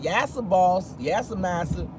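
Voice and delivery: hint of a servile plantation voice; slave voice. Shown as a demonstration. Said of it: "the slave voice would have been like".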